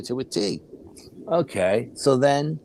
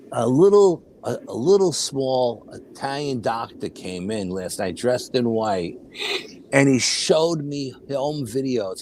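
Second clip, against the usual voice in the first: mother's slow recounting; slower than usual. Retold or imitated. Mother telling her child about last night's visitor, slow and deliberate. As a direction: take it slowly, stretching key words. Retells mother's wondrous account.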